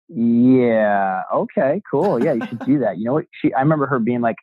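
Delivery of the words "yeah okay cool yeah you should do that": retold kidding encouragement. Wife humouring husband's idea of selling houses, kidding. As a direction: humour them with a stretched-out mock approval. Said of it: "she was kidding".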